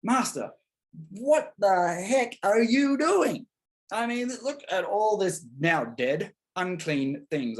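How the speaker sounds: high, slow, exasperated protest at his master; a disciple aghast, half pleading; alarmed Peter. Retold or imitated. Peter protesting to Jesus among the dead pigs, high and exasperated. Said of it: "And Peter's like".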